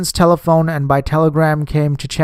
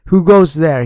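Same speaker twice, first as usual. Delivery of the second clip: ordinary delivery, nothing marked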